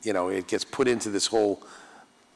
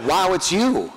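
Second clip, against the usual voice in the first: higher, louder laughing echo; mock-excited echo; 9 semitones higher, 7 dB louder, slower than usual. Actor playfully echoing the fan's greeting, excited. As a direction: bounce the fan's words back, beaming.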